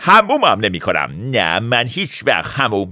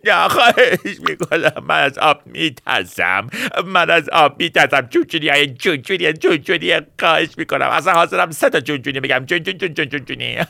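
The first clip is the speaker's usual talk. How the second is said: hammed-up pretend sobbing that keeps cracking into giggles; mock crying; 3 semitones higher than usual. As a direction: fake wailing, half laughing. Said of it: "گریه نکن".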